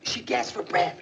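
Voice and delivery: unvoiced, urgent breathy telling; dramatic gasp. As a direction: whisper it like a thriller. Dramatizing a fire scene.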